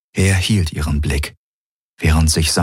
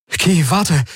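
calling out; 12 semitones higher than usual. A narrator's reading. Galen calls after her.

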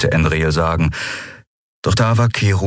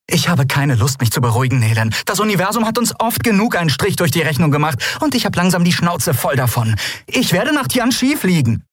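raised-pitch voice, pushing back hard; defiant and fed up; 12 semitones higher than usual. A narrator's reading. Endriel to her friend, fed up and defiant. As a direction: refuse to back down, sick of it all.

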